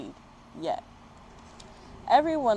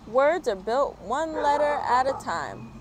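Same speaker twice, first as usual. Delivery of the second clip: higher call from the departing bird; 6 semitones higher than usual. Acted. The bird calling to Rocket from the sky, higher. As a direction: call it back as she flies off. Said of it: "she called".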